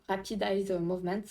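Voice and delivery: self-mocking English accent on Rapid Eye Movement; lightly put-on English accent. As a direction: say it the English way, half-jokingly. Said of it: "voilà, mon super accent".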